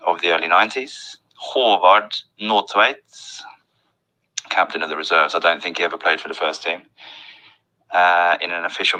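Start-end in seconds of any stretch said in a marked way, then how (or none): 1.4-3.0 "Håvard Nordtveit" slowly, with å as an O sound; long O in "Håvard"; Norwegian pronunciation. Shown as a demonstration. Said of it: "That's an O sound".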